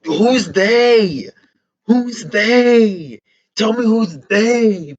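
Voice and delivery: loud, high, pleading question; excited demand. Real, not acted. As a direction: demand an answer from the screen. Begs trailer for answer.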